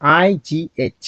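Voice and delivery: each letter drawn out for the class; slow, careful spelling; slow spelled letters. Shown as a demonstration. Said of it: "কি লিখে রেখেছি?".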